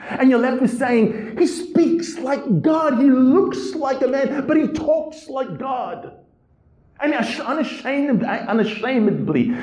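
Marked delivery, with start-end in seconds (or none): 1.4-6.1 awed exclamation. Real, not acted. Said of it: "awe at Jesus' words".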